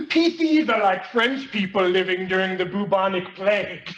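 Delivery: lightly voiced genius kid lecturing; a smug teen brushing off a classmate; nerdy Gordy.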